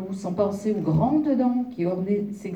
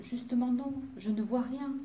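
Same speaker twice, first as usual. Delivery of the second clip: small, high, soft voice; pitiful tiny voice; 6 semitones higher, 5 dB quieter than usual. A narrator's reading. Fairy admits to the wolf she is blind, pitiful tiny voice. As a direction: shrink the voice to sound pitiful. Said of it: "avait repris sa toute petite voix, celle qui faisait pitié".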